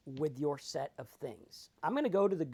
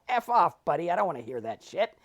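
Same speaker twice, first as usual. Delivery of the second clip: a sudden louder snap at the off; mock angry retort; 4 semitones higher, 5 dB louder than usual. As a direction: brush off the advice with a burst. Acted retort to cliché.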